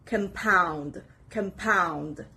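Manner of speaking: "compound" as com-POUND, said twice; teacher's model "compound", stressed on the second part; stress on second syllable. Shown as a demonstration. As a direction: lean on POUND in "compound", keeping the first part light. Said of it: "the second part is stressed".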